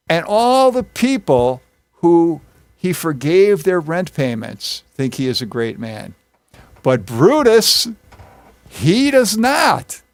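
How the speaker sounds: slow, weighty build with drawn-out emphasis; sarcastic praise, leaning hard on the contrast; mock-sincere sarcasm. Teacher voicing Mark Antony to the common people, pointedly sarcastic. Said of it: "this is where sarcasm comes in".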